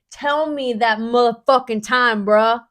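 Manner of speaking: loud, street-tough demand; mock tough threat. Imaginary gunman demanding the time, loud and tough. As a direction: lean in like a gangster pressing for an answer.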